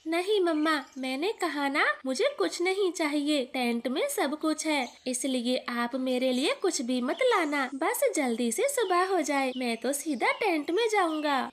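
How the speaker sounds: put-on a light child's voice, eager; little boy Kuku. Little son tells his mother about the tent, eager child voice. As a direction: play the excited little son.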